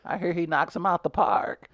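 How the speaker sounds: lightly voiced date, gushing; playing Megan. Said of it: "I'm gonna be Megan again".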